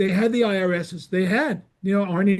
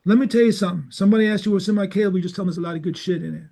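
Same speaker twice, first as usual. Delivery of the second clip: brusque cable maker; much faster than usual. Retold or imitated. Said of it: "He goes".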